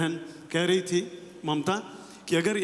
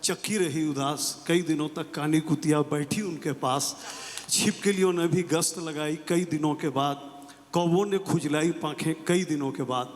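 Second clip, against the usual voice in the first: measured reading of a Nagarjuna poem; a hint of stage poetry reading; poem recitation. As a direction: recite each line with a pause. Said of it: "इस पंक्ति के साथ शुरू करूँगा".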